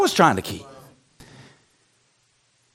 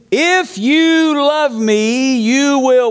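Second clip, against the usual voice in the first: drawn-out verse; 3 semitones higher, much slower than usual. Retold or imitated. Quotes verse with drawn-out words.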